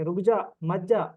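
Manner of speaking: "रुक जा" and "मत जा" as two separate orders; pause after रुक जा. Acted. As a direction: break after "रुक जा", then "मत जा". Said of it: "इसका मतलब ये नहीं कर रहा". ("रुक जा", फिर ठहरकर "मत जा")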